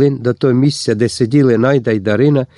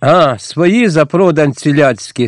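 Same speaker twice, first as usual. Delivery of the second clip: slow, scornful jab; contemptuous; 3 semitones higher, slower than usual. Acted. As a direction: spit it out slowly with disdain. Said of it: "з презирством кинув отаман".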